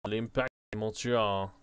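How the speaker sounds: a lightly put-on, clumsy French accent on "L'Impact de Montreal"; bad French accent. Shown as a demonstration. Reading the club name aloud in a self-mocking French accent. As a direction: say "L'Impact de Montreal" the way a fourth-grade French student would. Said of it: "Pardon my terrible French accent".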